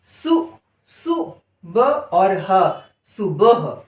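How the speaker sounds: सु ब ह stretched slowly; slow sounding out. Shown as a demonstration. Teacher to pupils, drawn-out syllables. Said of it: "अगला शब्द सु".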